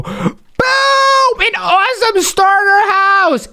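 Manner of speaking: high, triumphant announcement; excited reveal. Acted. Host reveals the viewer's new house, excited. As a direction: present it like a grand surprise.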